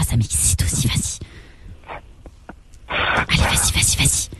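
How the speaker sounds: voiceless urging whisper; sultry whisper. Pretend. Woman egging the caller on, sultry whisper. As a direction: whisper it as a teasing come-on.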